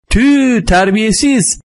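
high-pitched indignant cry; high mock-outraged exclamation; shouted scolding. A narrator's reading. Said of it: "diye bağırdılar".

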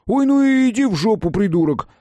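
loud, high, offended outburst; angry yell. Acted. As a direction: hurl the insult furiously. Friend yells insult in anger.

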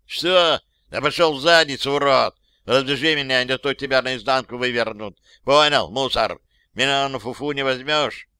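shouting angry insults; furious shout. Acted. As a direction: yell it in his face. Mafioso curses the cop.

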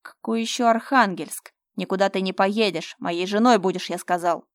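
loud raging outburst; furious yell. Acted. Fyodor rages at Slava's plan, yelling. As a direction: roar him down. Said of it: "яростно завопил".

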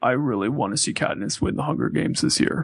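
low, soft, flat Philip Seymour Hoffman drone; deadpan monotone. Pretend. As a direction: drone it out with no feeling. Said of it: "I talk in a deadpan, monotone voice".

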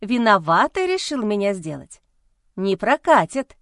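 defiant. Acted. Wife defiant.

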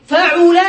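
فعل said fa-'u-la, middle vowel u; damma on ain. Shown as a demonstration. Teacher listing verb patterns, فعل as fa'ula. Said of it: "بضم".

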